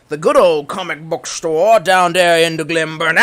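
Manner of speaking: lightly put-on, downcast Southern accent; a touch of mock Southern gloom; depressed Southern accent. Streamer recalling an old comic book store, depressed Southern accent. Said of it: "talking like a depressed Southern".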